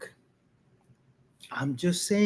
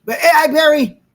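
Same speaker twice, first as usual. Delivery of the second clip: excited greeting; 11 semitones higher, 13 dB louder than usual. Real, not acted. Greets viewer Barry on stream.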